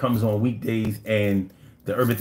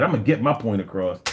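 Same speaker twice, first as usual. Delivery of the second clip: a fast, clipped quote of the man; quick quote; 3 semitones lower, faster than usual. Retold or imitated. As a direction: rattle off his line quickly. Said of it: "This man said".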